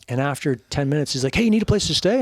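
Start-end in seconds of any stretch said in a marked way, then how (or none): 1.3-2.2 mock Kurt voice. Kurt voiced in a retold story.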